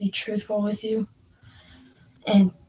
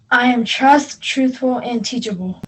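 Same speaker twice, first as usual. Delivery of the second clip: louder at the start, with passion; 2 semitones higher, 7 dB louder than usual. Shown as a demonstration. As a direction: put more fire behind I am trust. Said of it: "say it with passion now".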